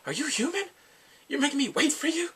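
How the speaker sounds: high-pitched, exasperated scolding; acted indignation. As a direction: berate her in mock outrage. Acts out man berating her.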